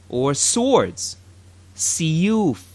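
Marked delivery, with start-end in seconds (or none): 1.7-2.6 "Siyuf" with a crisp S and long u; Arabic word demo. Shown as a demonstration. Teacher models the word for swords, crisply. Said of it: "as in siyuf".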